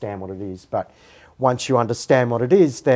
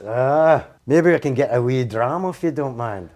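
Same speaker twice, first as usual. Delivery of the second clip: mock Scottish accent. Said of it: "I'm from Scotland".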